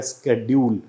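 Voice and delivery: शेड्यूल with American sk and British y, "SKED-yool"; mixed pronunciation. Shown as a demonstration. Teacher shows how people blend both, mixed pronunciation. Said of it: "दोनों को ही mix करके बोल देते हैं".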